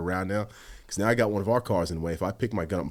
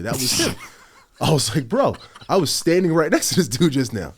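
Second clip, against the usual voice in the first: laughing disbelief; 10 semitones higher, 9 dB louder than usual. Retold or imitated. Realizing suspect passed him.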